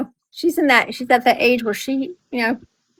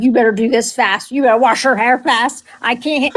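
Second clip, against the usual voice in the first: urgent order; 3 dB louder than usual. Retold or imitated. Retold urgent order during screaming bath.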